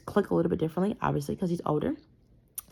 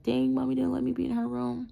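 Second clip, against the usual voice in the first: higher, lightly imitated child complaint; three-year-old daughter; 7 semitones higher than usual. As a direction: voice a little girl's mild grievance. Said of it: "maybe it is for a three-year-old".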